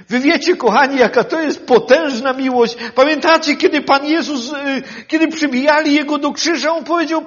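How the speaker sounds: impassioned pulpit voice; preaching at full force. Acted. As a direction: stir the congregation about love.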